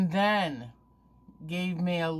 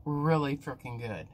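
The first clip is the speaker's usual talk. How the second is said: chewing while talking; 2 semitones lower than usual. Real, not acted. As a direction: mouth partly full. Seen 2: Holds bitten jelly candy, lips pressed chewing before, mouth working while speaking.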